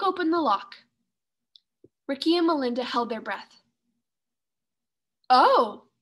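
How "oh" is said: loud gasp of surprise; startled at the chest; sudden loud oh; surprised oh. Acted. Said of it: "Melinda cried in surprise".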